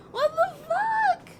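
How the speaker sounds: stunned slow yell of disbelief; drawn-out outraged yell. Real, not acted. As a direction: drag it out in shock. Outraged at game twist.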